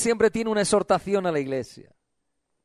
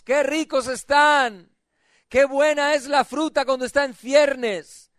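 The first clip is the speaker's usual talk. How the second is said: full-voiced, relishing sermon delivery; joyful preaching; 5 semitones higher, 4 dB louder than usual. Real, not acted. Preacher praising figs and fresh fruit, joyful preaching. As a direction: savour each image as you preach.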